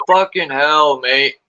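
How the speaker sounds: put-on Australian accent. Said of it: "The way she says it".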